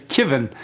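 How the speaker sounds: "Kiven" said KIV-en, with a short i as in "kit"; light imitation of a New Zealander saying "Kiven"; Kiwi-style Kevin. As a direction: quietly repeat "Kiven" with the first vowel as in "kit". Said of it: "they say Kiven".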